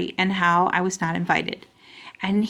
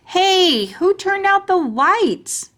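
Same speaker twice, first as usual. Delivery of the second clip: put-on child's call, pitched far up and slowed; high playful call; 10 semitones higher, 4 dB louder, slower than usual. A narrator's reading. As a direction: squeal it out like a kid under a bag. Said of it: "I said".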